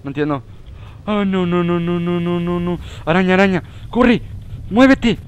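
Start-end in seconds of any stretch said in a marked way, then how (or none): 1.3-5.2 high, loud frantic yells to run; frantic high shouting; panicked shouting. Real, not acted. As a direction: scream at your character to get moving. Spider chasing, urging character on.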